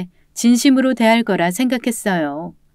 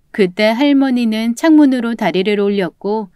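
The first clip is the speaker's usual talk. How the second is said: ordinary delivery, nothing marked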